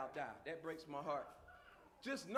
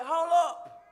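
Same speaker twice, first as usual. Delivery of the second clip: God cutting in; 5 semitones higher, 9 dB louder than usual. Acted. God interrupting Hagar's pity party.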